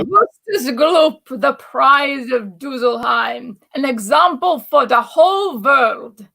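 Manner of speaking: mock German announcer; proud, slow German accent. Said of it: "That was a good German accent".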